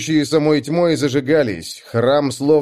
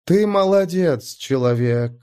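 goddess voice; 5 semitones higher, slower than usual. Acted. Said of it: "приятный властный голос богини".

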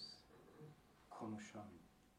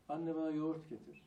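put-on whiny child demand; 5 semitones higher, 8 dB louder than usual.

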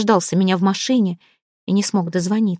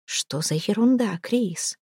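quiet anger; 6 dB quieter, slower than usual. Acted. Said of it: "Джек гневно посмотрел на меня".

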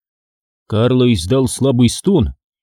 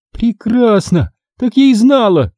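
flaring up; 10 semitones higher than usual. Acted. Sister blows up at her brother, angry outburst. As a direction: explode at him, I knew it. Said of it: "вспылила я".

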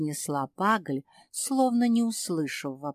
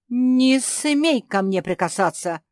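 higher, louder indignant shriek; 5 semitones higher, 7 dB louder than usual. A narrator's reading. Dog recoiling from his daughter, higher louder shriek. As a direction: squeal it out in outrage. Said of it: "взвизгнул пёс".

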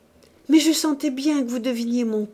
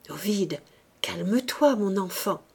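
murmured. Acted. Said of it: "murmura-t-elle en le caressant".

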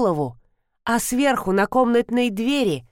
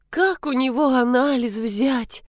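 mild tearful plea, higher and slow; sobbing; 5 semitones higher, slower than usual. A narrator's reading. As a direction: ask it through mild sobs, slowly. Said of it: "рыдала Ирина Леонидовна".

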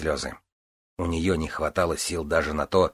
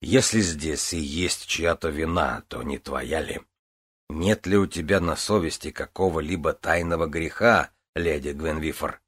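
stern priest; 2 semitones lower than usual. Acted. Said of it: "сурово объявил святой отец".

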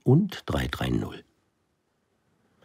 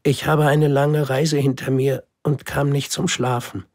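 put-on higher child's voice, weary; tired little prince; 9 semitones higher than usual. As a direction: explain with a sigh of fatigue. Prince explains his tiredness. (müder kleiner Prinz, leicht höher)

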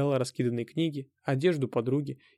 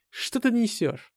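high, slow angry demand; 9 semitones higher, slower than usual. A narrator's reading. Hero confronts Anna, angry and high. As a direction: snap at her, pushed high.

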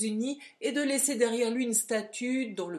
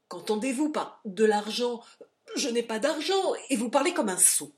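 loud, higher, rattled denial; flustered denial; 4 semitones higher, 7 dB louder than usual. Acted. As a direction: deny it, rattled and snappish. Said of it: "très troublé".

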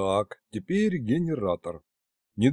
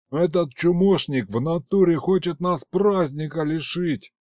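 yelling complaint; 5 semitones higher than usual. Acted. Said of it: "орал Аристофан".

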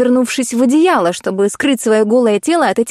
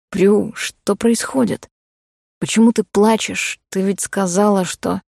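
puzzled soft man; 2 semitones lower, 3 dB quieter than usual. Acted. Cole puzzled, slow, soft.

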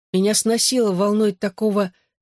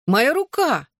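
squeak; 8 semitones higher, slower than usual. A narrator's reading. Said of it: "пискнула Клэр".

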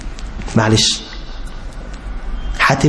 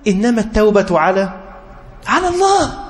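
verse cried out much higher at the peak; climactic verse; 6 semitones higher than usual. Shown as a demonstration. Preacher crowning his answers to the youth, verse sung out high. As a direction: lift على الله high as the climax. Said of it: "قال الله".

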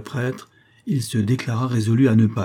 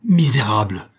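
shouted insult; 4 dB louder than usual. Acted. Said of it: "cria-t-elle".

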